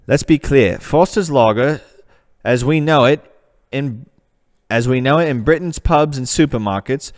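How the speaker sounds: reading the web page in a put-on British accent. American reading a Foster's page aloud, putting on a British accent. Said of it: "I've got to go back to America for this one".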